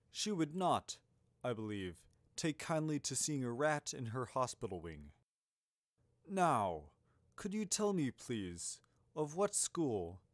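lightly voiced, courteous old headmaster; measured, halting polite enquiry; a hint of grandfatherly wizard, picking his words; Dumbledore.

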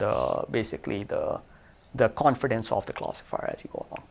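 winded, talking between breaths; short of breath after a long stretch. Real, not acted. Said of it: "while I catch my breath".

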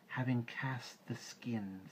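slow, drawn-out snake voice; python Kaa. A narrator's reading. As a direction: let Kaa's words uncoil slowly. Kaa speaks.

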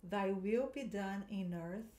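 slow, careful repeat; teacher repeating for students; model line again. Shown as a demonstration. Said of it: "De novo".

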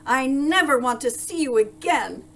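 loud, high-pitched dismissal; angry shout. A narrator's reading. Duke casting out the baker, shouting angrily. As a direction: shout it with finality. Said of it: "shouted the Duke".

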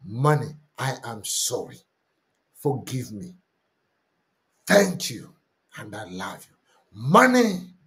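a sincere confession, said simply; earnest prayer. Shown as a demonstration. Pastor leads the congregation in an earnest confession. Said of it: "repeats the confession prayer".

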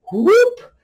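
high, loud whoop; sudden whoop for a quick yank; imitated whoop. Mimics pants being yanked down.

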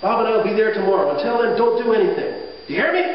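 mock yell ending on a sharp high question; retold scolding yell. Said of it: "yells at him".

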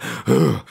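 shivery gasp. Retold or imitated. Goosebumps while retelling.

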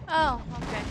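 startled loud oh okay; surprised. Real, not acted. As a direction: caught off guard, loud. Surprised by sudden game event.

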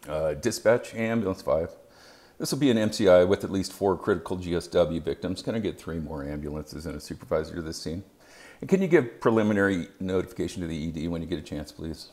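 unruffled, even professional radio call; calm radio voice. Shown as a demonstration. Medic calling dispatch from a mass-casualty scene, calm and unruffled. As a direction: keep it steady as if nothing is wrong. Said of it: "make a conscious effort to channel General Yeager".

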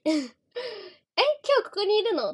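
hammed-up disbelief, slowed right down; mock surprise. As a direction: play a startled fan, stretching each word. Acted fan surprise at send-off.

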